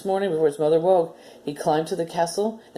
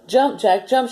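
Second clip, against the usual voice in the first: hollered; 6 semitones higher, 4 dB louder, slower than usual. A narrator's reading. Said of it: "she hollered".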